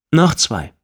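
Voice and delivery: bright high call to the barman; high order. Acted. Ordering another round.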